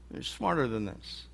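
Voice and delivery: dropped to a soft, disappointed echo. Acted. Jesus repeating it softly to his disciples, disappointed. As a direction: let it fall away, almost to yourself. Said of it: "in a sort of a frustrating way".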